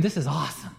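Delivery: a soft, half-hearted mock scream that never takes off; unconvincing scream. Scared little boy on the rapids, unconvincing half-hearted scream. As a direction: say it like you don't quite believe it yet. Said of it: "It wasn't a very convincing scream".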